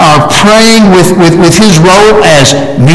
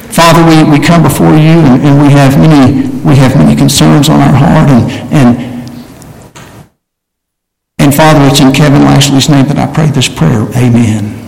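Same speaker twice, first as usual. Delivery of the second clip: lightly acted prayer in a lower voice; mock prayer; 5 semitones lower than usual. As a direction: pretend to lead a prayer, pitched down. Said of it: "why I don't pray in your name".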